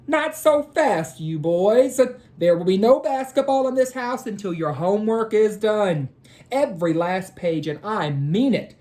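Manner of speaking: high, firm motherly warning; firm mom. Acted. Mrs. Jordan stopping the boys from playing before homework, firm. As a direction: lay down the rule like a strict mom. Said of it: "Missus Jordan said".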